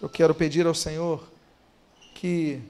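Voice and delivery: soft, low prayer voice, unhurried; closing prayer. Acted. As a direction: lead the church gently into prayer. (voz baixa e suave de oração)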